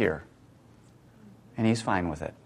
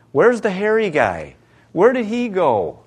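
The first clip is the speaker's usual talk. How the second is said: higher, louder worried searching; anxious crowd; 8 semitones higher, 4 dB louder than usual. Retold or imitated. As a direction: ask like a panicked villager. Desperate people voiced.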